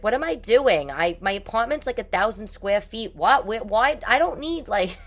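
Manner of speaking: rising high, flustered disbelief at herself; talking herself out of buying glasses, a hammed-up panic; exasperated self-talk. Podcast host quotes her own shopping panic, rising and flustered.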